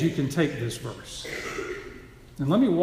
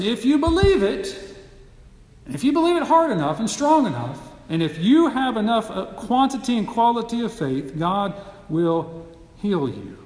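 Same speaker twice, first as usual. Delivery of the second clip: hammed-up faith-healer pep talk, slowing on the last words; mock zealous healer; 5 semitones higher than usual. Preacher mocking what believers tell the sick person, mock zealous. Well-meaning Christians telling the sick.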